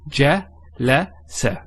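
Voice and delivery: Je, le, se said as three short separate syllables; syllables split apart. Shown as a demonstration. Teacher breaks the word into syllables for students, separately. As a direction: tap out each syllable. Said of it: "three syllables".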